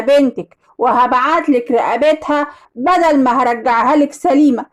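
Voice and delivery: lightly voiced ransom caller; kidnapper on phone. Kidnapper calling the mother for ransom, a hint of menace. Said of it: "وواحد قال لي في التليفون".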